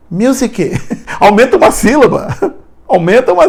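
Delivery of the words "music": "Music" as "muzike", raised; wrong pronunciation. Retold or imitated. Teacher mocking the mistake, extra syllable. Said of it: "Tem gente que fala music".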